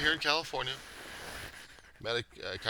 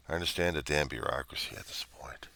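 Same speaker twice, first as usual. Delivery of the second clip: a bitter grumble under his breath; whispered grumble; 3 semitones lower, 6 dB quieter than usual. Real, not acted. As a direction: mutter it under your breath in disgust. Muttered complaint.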